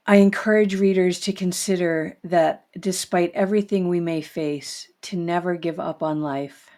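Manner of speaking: steady, earnest book reading. Acted. Host reads Mary Jo's book passage to the audience, earnest.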